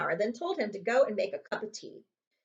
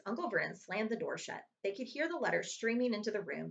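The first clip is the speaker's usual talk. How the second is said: plain reading voice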